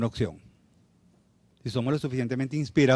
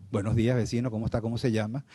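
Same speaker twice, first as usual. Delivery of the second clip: very polite; 3 semitones lower, 4 dB quieter than usual. Retold or imitated. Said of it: "muy educado".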